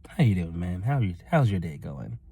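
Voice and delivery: low, easygoing retold greeting; calm. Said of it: "I was as calm as I was".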